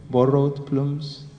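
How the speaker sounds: "Borrowed plumes" slowly, with a long oo in "plumes"; slow, checking "plumes"; careful pronunciation. Shown as a demonstration. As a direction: test the word "plumes" slowly, unsure. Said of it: "Is that how you say?".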